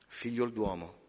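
soft, low, slowing benediction; quiet, reverent final call; hushed solemn close. Acted. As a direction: let the words settle in the silence. Hushed closing of sermon.

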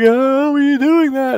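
high, loud, drawn-out imitation of crying; hammed-up sobbing question; mock tearful wail. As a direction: wail it slowly like a sister in tears. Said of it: "literally burst out in tears".

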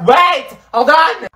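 high, stretched-out mock yell; hammed-up frantic plea to stop; retold panic. Rider retelling a loose seatbelt, mock panic. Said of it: "my seatbelt was still up".

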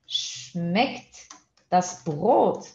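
Brot with a throaty German r, very slow; slow German model. Shown as a demonstration. Teacher modelling a German sentence for learners, slowly. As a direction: spell out schmeckt das Brot slowly. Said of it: "teacher models German phrase".

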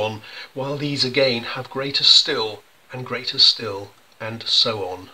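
slow, measured verse recital; poem recitation. Acted.

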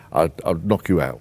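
put-on threat in a rough London accent. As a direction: slip into London-speak for the threat. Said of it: "this is where I speak in London".

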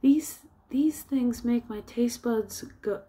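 high-pitched mock ecstasy over food; Whitey. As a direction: gush in a high cartoonish voice.

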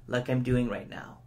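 calm, grave and measured; serious tone. Shown as a demonstration. Speaking to the audience about poverty in Canada, serious tone. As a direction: speak as if the issue really matters. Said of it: "I would need to use a serious tone of voice".

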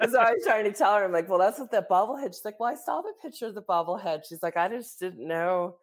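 laughing while retelling the bobblehead chat. Real, not acted. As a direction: keep the giggle running through the words.

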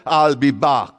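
hammed-up Terminator catchphrase with a laugh; Schwarzenegger. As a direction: do a jokey action-hero growl. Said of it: "pulled a spiritual Schwarzenegger on him".

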